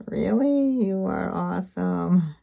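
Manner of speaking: high, loud, gushing thanks; light up like he made your day; delighted surprise. Retold or imitated. Thrilled reply to helpful stranger.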